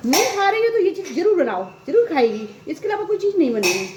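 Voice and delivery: a high, fast, bossy grandmother voice; 1 strict grandmother. Retold or imitated. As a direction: tell the child firmly what she must eat. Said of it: "दादी हमारी कहती थी". (दादी की ऊँची, तेज़, रौबदार आवाज़)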